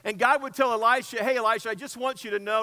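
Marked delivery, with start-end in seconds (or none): 1.2-2.6 casual. Retold or imitated. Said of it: "he may not have said it as casually as this".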